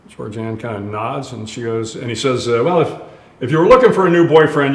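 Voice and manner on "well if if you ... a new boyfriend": Australian doctor. Retold or imitated. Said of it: "this kind of ruddy-faced Australian fella".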